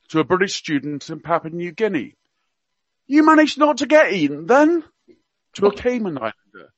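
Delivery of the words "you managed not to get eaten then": higher, hammed-up Cockney accent; Prince Philip in Cockney. Radio guest quoting royal gaffes to listeners, mock Cockney accent. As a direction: play the old duke's gaffes in mock Cockney. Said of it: "he spoke with a Cockney accent".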